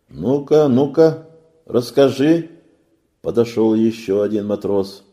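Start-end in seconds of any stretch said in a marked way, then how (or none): 0.1-2.5 loud, high urging; eager sailor. A narrator's reading. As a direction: hurry him to tell. Second sailor urges.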